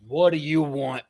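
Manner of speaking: loud, dismissive challenge; acted gruff impatience; brusque orc boss. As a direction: demand it of an unwelcome visitor. Orc boss snaps at visitor.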